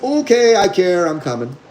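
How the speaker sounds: high, quick dog voice conceding; dog giving in. Retold or imitated. Trainer voicing the dog finally giving in, high then dropping. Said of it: "where the dog's like".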